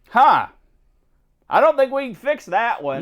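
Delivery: Brillo. Retold or imitated. Imitates Brillo inspecting ruined card.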